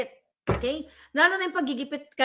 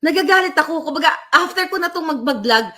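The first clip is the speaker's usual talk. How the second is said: louder, sharper with real anger; frustrated, raised voice; 3 semitones higher, 5 dB louder than usual. Real, not acted. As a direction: let the anger show. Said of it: "nagagalit pa rin ako".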